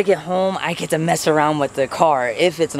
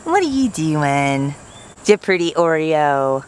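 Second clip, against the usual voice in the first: pet talk; slower than usual. Real, not acted. Owner praising the cat in slow baby talk.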